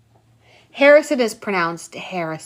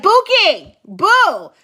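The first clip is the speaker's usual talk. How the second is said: cooing nickname; 8 semitones higher, 5 dB louder, much slower than usual. Pretend. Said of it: "I'm be like".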